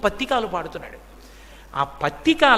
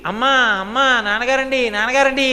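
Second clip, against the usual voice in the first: put-on child calling out; 3 semitones higher than usual. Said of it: "అని పిలిచాడు".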